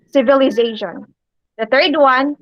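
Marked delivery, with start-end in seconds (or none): 0.1-1.1 "Civilization" with emphasis on ZA; teacher's careful repeat of "Civilization", weight on ZA; syllable stress. Shown as a demonstration. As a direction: lean on the ZA in "Civilization". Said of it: "What about in civilization?".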